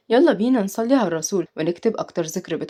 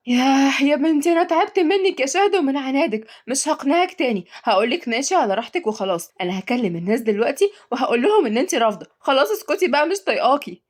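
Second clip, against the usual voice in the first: exasperated; 5 semitones higher than usual. Acted. Fed-up mother scolds stubborn daughter.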